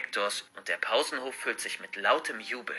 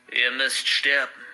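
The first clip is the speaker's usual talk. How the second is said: deep menacing voice; slower than usual. Acted. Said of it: "mit einer tiefen Stimme".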